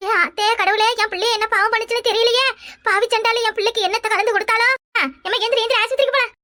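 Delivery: urgent, distraught mother; frantic lament. Acted. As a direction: cry to God in panic for your child. Mother fears child was poisoned.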